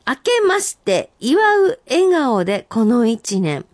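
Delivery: senryu recital. Acted. Reading senryu aloud.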